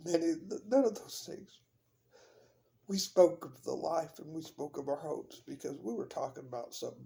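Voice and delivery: talking while the car shakes on a rough road; on a bumpy road. Real, not acted. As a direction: voice jolted by a bumpy ride. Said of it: "Sorry for the shaking".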